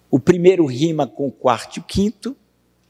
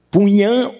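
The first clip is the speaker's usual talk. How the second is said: "Punhã" higher, landing firmly on "nhã"; stress on tonic syllable; 7 semitones higher, 4 dB louder than usual. Shown as a demonstration. Teacher pointing out the tonic syllable, stressed "nhã" in "Punhã". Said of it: "onde é a sílaba tônica?".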